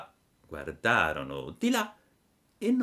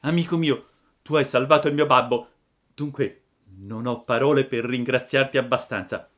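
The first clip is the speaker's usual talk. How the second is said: Pinocchio, louder and higher, deeply moved; a grateful puppet's moved thanks; 5 semitones higher, 7 dB louder than usual. A narrator's reading. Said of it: "con voce commossa".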